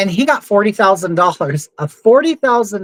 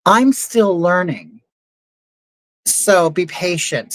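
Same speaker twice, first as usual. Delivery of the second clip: slow, even machine voice; mildly imitating a computer voice; slow AI assistant voice; slower than usual. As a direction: read it like a polite drive-thru robot. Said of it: "gave me, like, a disclaimer".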